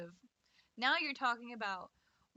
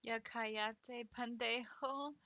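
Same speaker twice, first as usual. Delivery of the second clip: slow then shouting the last insult; mock tough-guy put-down; angry insult; 2 semitones higher, 6 dB louder, slower than usual. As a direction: snap the Spanish insult with rising anger. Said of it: "if you talked to me like that".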